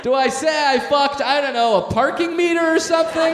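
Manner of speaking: squealing with laughter; excited high laughing. Real, not acted. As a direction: pitch up, laughing through it.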